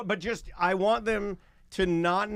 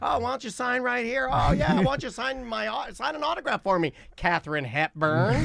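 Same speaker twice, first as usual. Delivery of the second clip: higher, put-on coaxing sweetness; butter up an old lady; playful flattery, pitched up to charm; sweet-talking; 6 semitones higher than usual. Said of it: "talk to her in a sweet way".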